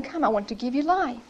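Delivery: soft, gentle invitation; a quiet, tender call to a child. Retold or imitated. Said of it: "the invitation is so tender".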